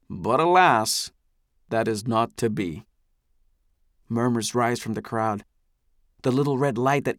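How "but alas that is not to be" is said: a leader playing up the sorrow; theatrical lament. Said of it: "gives a dramatically deep sigh".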